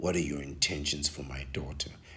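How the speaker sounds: mock low, quick, darkly ominous murmur. Retelling what a man says to set you up, in a mock-ominous voice. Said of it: "In just the most ominous voice".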